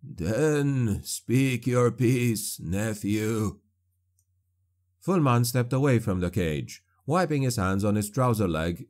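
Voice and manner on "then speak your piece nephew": slow, sinking, beaten prisoner; broken sorcerer yielding to his nephew, slow and sinking; defeated sorcerer. Acted. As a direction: let the fight drain out, very slow. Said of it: "He shook his head weakly".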